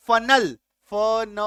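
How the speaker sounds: FUNNEL as फनल with an "uh" in फ न; drawn-out syllables. Shown as a demonstration. Teacher sounding out फनल for the class, slow syllables. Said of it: "ई का जो उच्चारण है वो अ होगा".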